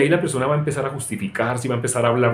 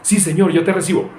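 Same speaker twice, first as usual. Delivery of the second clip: lightly hammed-up pious believer, higher; a playful imitation of an eager believer; mock eager prayer; 5 semitones higher than usual. Preacher mimics someone saying a quick prayer, mock eager. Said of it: "recibir es decir".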